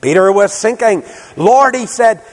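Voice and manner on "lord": retold cry. Peter sinking cries out.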